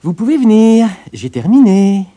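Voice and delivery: high, loud call from far off; small voice calling out. Acted. Tailor calling the soldiers from the forest, small voice ringing out. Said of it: "une petite voix retentit".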